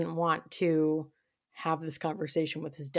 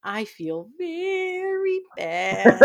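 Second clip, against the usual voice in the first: hammed-up tearful voice, high and drawn out; comic high-pitched imitation of tearful self-pity; Alan, choking back tears; 11 semitones higher, 6 dB louder, much slower than usual. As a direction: stretch it out slow and high, mock-holding back sobs. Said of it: "he's choking back tears".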